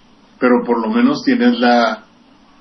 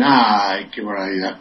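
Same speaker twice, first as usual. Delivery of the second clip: pitying sigh; 5 semitones lower than usual. Retold or imitated. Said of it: "como diciendo".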